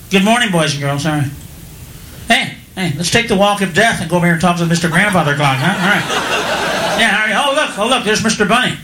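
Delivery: put-on low, joyless kids-show patter; depressed kids' host. Captain Kangaroo dully hosting his show for kids, low and bored. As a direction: greet the children like you've given up. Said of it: "He was like".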